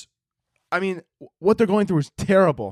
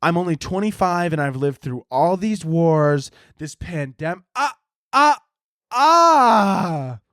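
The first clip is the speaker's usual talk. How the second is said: mock crying girl; slower than usual. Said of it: "she was like".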